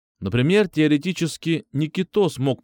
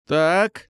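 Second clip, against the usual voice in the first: put-on a higher, trembling old woman's "Так"; strange trembling voice; 6 semitones higher, 3 dB louder than usual. A narrator's reading. Old woman killer stops the men, trembling voice. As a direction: let the word quiver, old and odd. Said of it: "странным дрожащим голосом".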